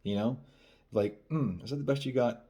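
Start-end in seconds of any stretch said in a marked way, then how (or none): 1.3-2.4 teasing hum, slightly raised pitch; playful. Shown as a demonstration. Dating coach showing a fun tease after a kiss, playful. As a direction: tease lightly, having fun with it. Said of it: "Be playful".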